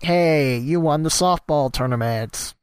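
ordinary delivery

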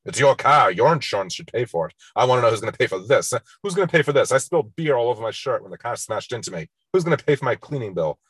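bully him down, indignant; bullying yell. Retold or imitated. Bully Biff blames George.

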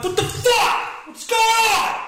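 confused angry squawk; sudden pitch-jump of disbelief; startled outburst. Retold or imitated. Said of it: "I'm like".

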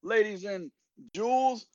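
lightly hammed announcer; ringmaster. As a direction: announce it like a show host. Show intro announcement.

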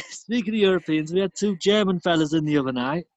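mock northern bloke. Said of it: "just bog standard northern".

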